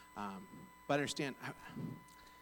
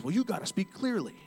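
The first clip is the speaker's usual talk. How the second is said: raised, louder insistence; angry caller; 8 semitones higher, 6 dB louder than usual. Retold or imitated. Angry caller insisting to a bank agent, irate. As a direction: imitate an irate customer repeating his demand. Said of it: "he was so angry".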